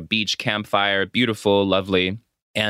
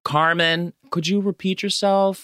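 higher-pitched, courteous asking; polite request; 5 semitones higher than usual. Acted. Telling Steph how to ask Carmen, polite request. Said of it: "you could literally just be like".

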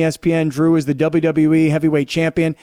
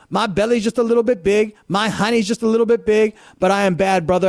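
a hint of Dusty's southern swagger; lightly hammed-up everyman boast; Dusty Rhodes impression; 3 semitones higher than usual. Host doing his little Dusty impression for the guest. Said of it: "you did your little Dusty impression there".

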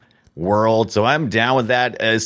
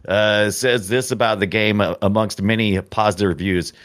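ordinary talk, nothing marked

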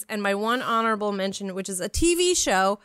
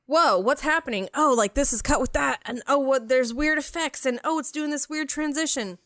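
amazed; 4 semitones higher than usual. Retold or imitated. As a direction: gush like a wowed kid. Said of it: "I was like".

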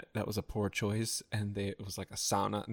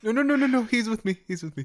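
loud protest; 12 semitones higher, 8 dB louder, faster than usual. Pretend.

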